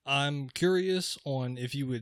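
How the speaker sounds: flat monotone robot delivery. Real, not acted. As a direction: talk like a droning robot. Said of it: "You sound like a robot right now".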